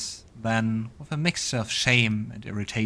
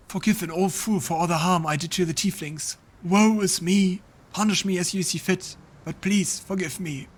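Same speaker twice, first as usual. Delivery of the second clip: hammed-up woe and penitence; groveling old fool; 8 semitones higher than usual. Old ruler begging forgiveness.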